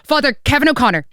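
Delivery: imitating Mrs Doyle rattling off priests; mock Mrs Doyle from Father Ted; Mrs Doyle guessing. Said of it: "She's like Missus Doyle in Father Ted".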